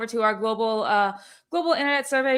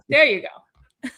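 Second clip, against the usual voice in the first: laughing; 4 semitones higher, much slower than usual. Real, not acted. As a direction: laugh it out slowly.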